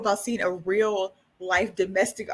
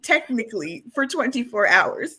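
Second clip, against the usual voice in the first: raised, louder exclaiming; emphatic; 6 semitones higher, 8 dB louder than usual. Real, not acted. Telling a friend about the doll couple, loud and amazed. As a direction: hit it hard, amazed at how short. Excited retelling.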